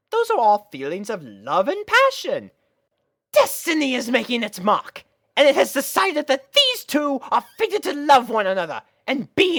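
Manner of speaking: high, knowing, coy sister voice; elegant big sister. Acted. Big sister coyly explaining to little sister, high and knowing. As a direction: play the teasing older sister.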